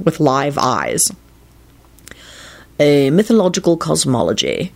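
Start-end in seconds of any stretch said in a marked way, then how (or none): 2.8-4.7 considered scholarly answer; reply as if weighing the idea; thoughtful. A narrator's reading. Lupin answering Radu's question on the poet, thoughtfully. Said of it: "he replied thoughtfully".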